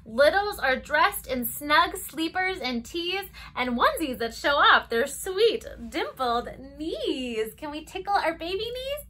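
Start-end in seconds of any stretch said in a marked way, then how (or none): 0.1-7.5 lilting storybook read-aloud; circle-time story voice; reading to children. Acted. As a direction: read it gently to toddlers. Reads picture book to children.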